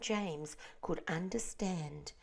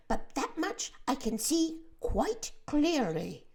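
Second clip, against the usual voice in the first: doom-laden earthworm; 6 semitones higher, 4 dB louder than usual. A narrator's reading. The earthworm tells the grasshopper they are doomed, wailing. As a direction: mourn it as if all is lost.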